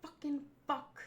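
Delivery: slow gruff puppet monster; Cookie Monster voice. Pretend. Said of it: "do a Cookie Monster voice".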